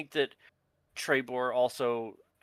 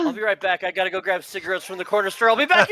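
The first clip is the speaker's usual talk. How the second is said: high fast mock dad; 8 semitones higher, 9 dB louder, faster than usual. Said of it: "imitating papa leaving joke".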